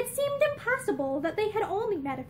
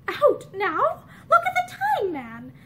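surprised laugh; 3 semitones higher, 4 dB louder than usual. Acted.

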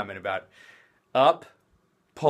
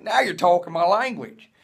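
put-on Australian accent; 4 semitones higher, 5 dB louder than usual. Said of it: "She just became Australian".

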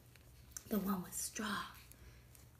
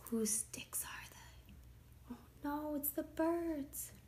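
very soft, higher character voice; hushed aside; 6 semitones higher, 9 dB quieter, slower than usual. A narrator's reading. Pig wonders whose sticks they are, hushed. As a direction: hush it right down.

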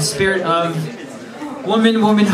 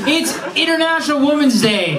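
excited shout; 8 semitones higher than usual. Real, not acted. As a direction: proclaim it with a burst of glee. Host exclaims the holiday.

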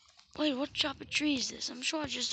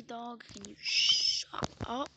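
mock scolding; 5 dB louder, slower than usual. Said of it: "No, I'm just joking".

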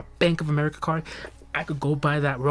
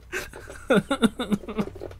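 high-pitched fake sobs; badly faked crying that could pass for laughter; pretend crying; 6 semitones higher than usual. Streamer mourning money spent on games, mock sobbing. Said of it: "I pretend crying".

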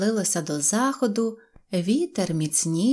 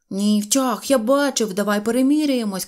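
loud, raised, arguing back; shouting insistence; 3 semitones higher, 5 dB louder than usual. Acted. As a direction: insist loudly on a recount. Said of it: "кричав Сиропчик". (наполегливий крик)

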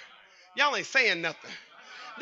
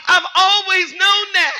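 higher, slow emphatic preaching; 8 semitones higher, 7 dB louder, slower than usual. Real, not acted. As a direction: drive it home to the congregation, slowly. Preaching builds to a peak.

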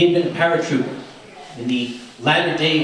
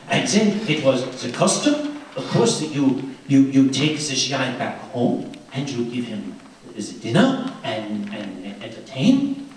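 put-on French accent; 4 semitones lower than usual. Teller voicing Josie telling the real story, light French accent. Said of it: "that accent I love so much".

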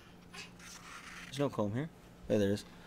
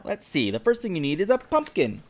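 fairy godmother; 7 semitones higher than usual. Acted. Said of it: "the fairy godmother said".

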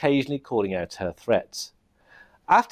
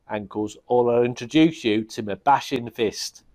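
bossy goblin king; 3 semitones higher than usual. Acted. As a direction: order the captain about. Goblin king giving orders.

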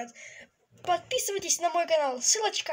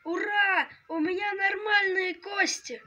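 joyful shout; 3 semitones higher than usual. Acted. Joy at healed bones.

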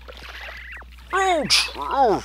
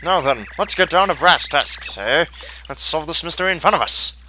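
a hint of a plummy adventurer hamming it up; Nigel Thornberry impression. Voicing the explorer Colorado to Mario, mild Nigel Thornberry accent. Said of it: "that's my best Nigel Thornberry impression".

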